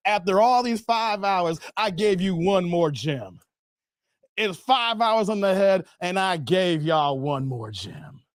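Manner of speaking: slow, drawn-out, spent delivery; slow emphatic wind-down. Real, not acted. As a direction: draw it out as if exhausted.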